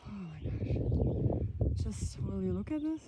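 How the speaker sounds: out of breath from the climb; panting between words; heavy breathing. Real, not acted. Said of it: "Sorry for the heavy breathing".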